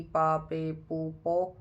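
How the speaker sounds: "पा, पे, पू, पो" as Japanese pa pe pu po; showing viewers the Japanese P-row; Japanese syllables. Shown as a demonstration. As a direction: clear separate syllables "पा, पे, पू, पो". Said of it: "ऐसे हो जाएगा".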